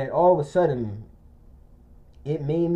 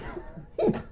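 high, airy stifled squeal; imitated near-crying laugh; 8 dB quieter than usual. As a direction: mimic laughing to the point of tears. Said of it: "it sounded like to the point".

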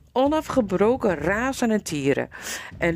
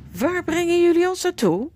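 choked fear; 11 semitones higher, 4 dB louder than usual. Acted. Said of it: "kon maar met moeite de woorden uit haar keel krijgen".

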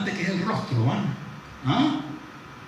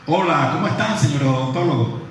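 other tone; 4 dB louder than usual. Shown as a demonstration. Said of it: "cambié el tono de la voz".

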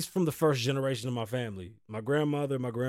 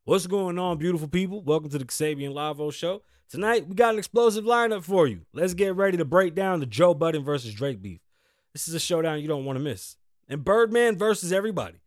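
hyped-up host reading the intro; raised, punchy announcer read on the headlines; show announcer; 2 semitones higher, 3 dB louder than usual. Acted. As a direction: pitch the line-up like a fight promoter. Reads the show's intro script.

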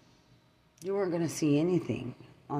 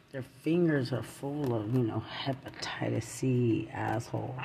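hushed, sneering near-whisper of disgust; 2 semitones lower than usual. Acted. Ranting at online accusers about dirty fingers, disgusted half-whisper. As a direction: spit it out like something filthy. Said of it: "in the most disgusting way 'cause I don't talk like this".

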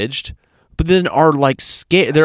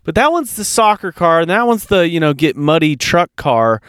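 hammed-up whine defending every vehicle; whiny excuse voice; 2 semitones higher, slower than usual. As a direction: mimic a mom pleading over her cars. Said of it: "And they're like".

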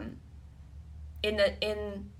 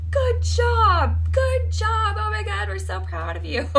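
high, loud gushing praise of parents; mocking doting parents; 14 semitones higher, 11 dB louder than usual. Parents praising the slacker brother, high mocking gush. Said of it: "and they'd be like".

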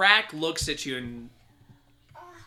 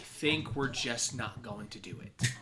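Salazar. Acted. GM voices villain Salazar.

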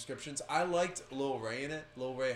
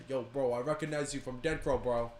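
loud, high, excited bro voice; pushy college bro hyping podcasts; frat bro; 5 semitones higher, 8 dB louder than usual. Retold or imitated. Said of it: "these white dudes at U N C W coming up to me and say".

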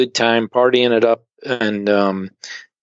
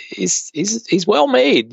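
usual speaking voice

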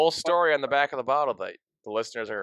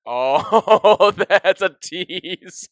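excited; 9 semitones higher, 10 dB louder, much slower than usual. Real, not acted. Excited teasing over sponsor tease.

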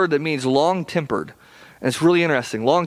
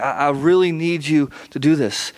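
mild, earnest plea; gently urge, as if imploring; pleading; 3 semitones lower than usual. Acted. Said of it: "he's, like, pleading".

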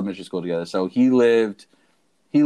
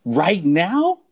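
plain; 8 semitones higher, 6 dB louder than usual. Retold or imitated. Disbelief at grandma's slur.

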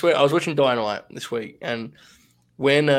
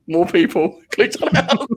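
slow, louder, breaking into a laugh; higher, drawn out, giving way to laughter; laughing disbelief; 7 semitones higher, 4 dB louder, slower than usual. Real, not acted. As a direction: crack up mid-sentence. Laughing at beating famous podcast.

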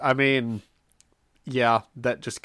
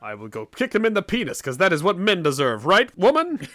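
higher-pitched, mock-heroic declaration; Thor; 7 semitones higher, 4 dB louder than usual. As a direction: proclaim it as a pompous champion. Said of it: "Thor got involved in this".

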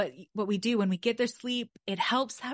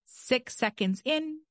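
slow demo count; 4 semitones higher, slower than usual. Shown as a demonstration. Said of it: "That's really the best cadence".

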